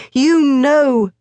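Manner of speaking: put-on high boyish voice; a pale but determined boy; boy Morris. A narrator's reading. Morris answers his father, high and determined.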